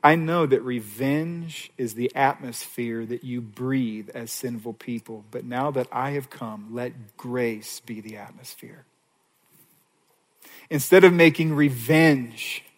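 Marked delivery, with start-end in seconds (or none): 0.0-8.8 slow, soft and gentle; tender Jesus. Acted. Jesus speaking gently to sinners, soft and slow. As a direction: ease them toward grace. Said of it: "Jesus is saying, Look".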